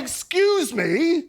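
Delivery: drawn-out, affronted reading; mock indignation. Reading an angry viewer's message, mildly indignant. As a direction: stretch it out as if offended. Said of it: "says angry fella".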